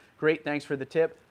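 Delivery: ordinary talk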